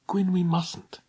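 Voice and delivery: urgent hushed whisper. Acted. Alison fearfully telling Gwyn they mustn't talk, whispered. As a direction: warn him under your breath. Girl warning forbidden friend.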